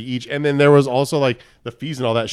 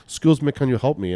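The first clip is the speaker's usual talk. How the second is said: imitated Russian woman's accent; lightly put-on Russian accent. Woman asking a stranger at a festival for help, imitated Russian accent. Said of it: "like, in her accent".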